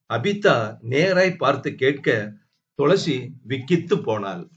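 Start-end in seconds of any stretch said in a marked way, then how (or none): none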